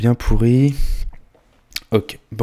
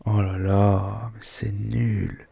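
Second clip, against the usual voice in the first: disappointed; 3 dB quieter, much slower than usual. Real, not acted. Slow, disappointed verdict.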